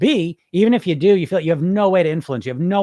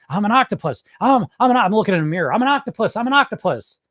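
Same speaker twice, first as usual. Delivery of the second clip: higher-pitched, insistent mock self-affirmation; hammed-up mirror pep talk, pitched up; 5 semitones higher, 4 dB louder than usual. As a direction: recite it like you're trying hard to convince yourself.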